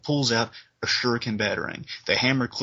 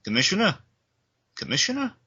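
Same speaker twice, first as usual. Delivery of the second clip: a cop calling out, the last call much higher and rising; 4 semitones higher than usual. Retold or imitated. Harvey Bullock calling to wounded Gordon, urgent call. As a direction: call to the downed commissioner, getting urgent. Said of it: "Harvey Bullock saying".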